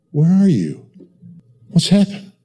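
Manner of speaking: questioning voice; God calling to his people. Retold or imitated. God calling to a lost person, lightly voiced. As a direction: ask like a father missing his child. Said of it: "can you imagine God saying to you".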